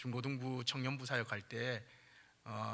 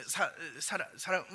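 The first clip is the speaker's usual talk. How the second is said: shy stammer; 3 semitones higher than usual. Retold or imitated. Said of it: "쭈뼛쭈뼛하면서".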